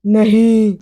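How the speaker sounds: lightly voiced ghost's flat denial. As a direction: answer as an eerie, unbothered ghost. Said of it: "आवाज बोली". (हल्की भूतिया आवाज़)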